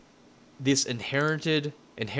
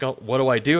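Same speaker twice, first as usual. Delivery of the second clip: louder, hammed-up panicked cry; a retold burst of panic, louder; mock panic; 6 dB louder, faster than usual. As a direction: play the helpless new babysitter losing it. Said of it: "I'm just like".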